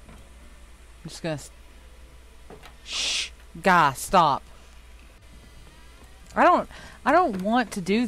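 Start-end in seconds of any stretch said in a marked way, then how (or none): 0.1-3.3 whispering while hiding. Real, not acted. Hiding from monster, goes silent.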